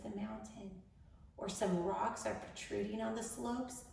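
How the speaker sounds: measured meditation voice with long pauses; guided meditation. Acted. Host leading incarcerated women into grounding, measured guided meditation. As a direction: guide them gently, phrase by phrase.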